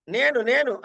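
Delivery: "నేను, నేను" repeated evenly; level tone. Shown as a demonstration. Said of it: "సమానంగా అంటున్నావు". ("నేను, నేను" సమానంగా)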